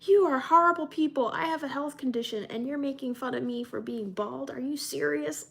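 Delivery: high indignant retort; mock outrage. Kid snapping at Roblox bullies in mock outrage. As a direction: play the wronged kid, outraged. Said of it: "I'm like".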